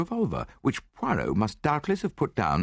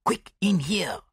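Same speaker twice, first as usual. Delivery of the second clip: urgent order; 10 semitones higher, slower than usual. A narrator's reading. Poirot hurries companions into the room.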